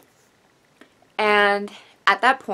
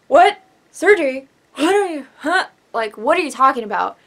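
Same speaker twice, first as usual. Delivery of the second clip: shocked disbelief; 5 semitones higher, 7 dB louder than usual. Retold or imitated. Shocked on phone hearing surgery.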